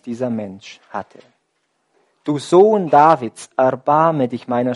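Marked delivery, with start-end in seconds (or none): 2.2-4.7 loud cry. Acted. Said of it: "schrie er mit lautstarker Stimme".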